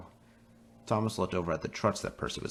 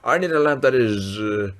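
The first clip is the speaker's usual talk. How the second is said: high, loud, very slow drawl; snooty demand; 7 semitones higher, 9 dB louder, slower than usual. Acted. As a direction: drag out the snob line. Gordon demands a better lamp.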